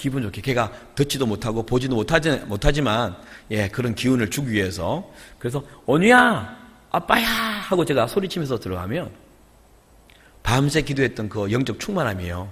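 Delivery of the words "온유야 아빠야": very high, loud, bright, cheerful called-out shout. A father recalls how he always greeted his daughter: retelling a high-toned cheerful greeting. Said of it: "항상 제가 하이톤으로 인사를 했습니다".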